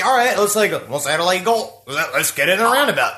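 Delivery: a light Australian accent on a retold line; mock Aussie, just a touch. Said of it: "this Australian accent".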